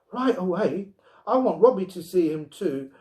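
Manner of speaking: put-on high, eager child's voice; bursting to show her friend; eager little girl. A narrator's reading.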